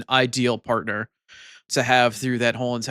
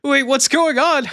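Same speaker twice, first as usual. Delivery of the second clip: much higher, louder and slow baffled cry; mock confusion; 14 semitones higher, 6 dB louder, slower than usual. Streamer seeing viewers get timed out, baffled. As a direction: stretch it out in exaggerated bewilderment. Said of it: "and I was like".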